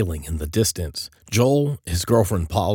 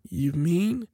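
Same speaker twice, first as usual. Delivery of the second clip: high, softish tentative question; hesitant; 12 semitones higher than usual. A narrator's reading. Joel going over things in his head, hesitant. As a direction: trail upward, working it out.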